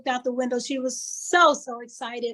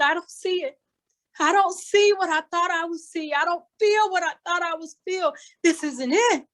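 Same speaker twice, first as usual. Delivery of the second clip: disappointed; 4 semitones higher than usual. Pretend. Listener voiced as disappointed traveller.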